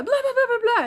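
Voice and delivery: very high, loud, theatrical gabble; loud, showy mock Italian chatter; dramatic Italian chatter. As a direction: mimic loud Italian talk. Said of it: "they go".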